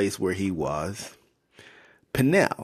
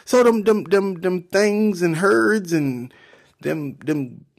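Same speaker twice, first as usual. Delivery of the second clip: high-pitched wonder, building louder; amazed Esau; 11 semitones higher, 3 dB louder than usual. Acted. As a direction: marvel at it all, pitched way up. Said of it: "And he's like".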